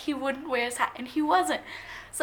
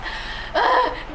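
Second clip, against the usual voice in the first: high, loud swooning gasp; excited gasp; 11 semitones higher, 5 dB louder than usual. Real, not acted. Fan recalling his face lighting up, high delighted gasp.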